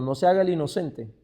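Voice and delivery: ordinary delivery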